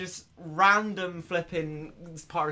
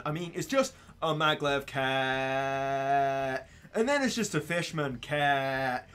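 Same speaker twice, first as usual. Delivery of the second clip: put-on American white girl; 3 semitones higher than usual. Streamer rants at himself about pointless runs, stereotypical American girl accent. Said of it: "You sound like an American white girl".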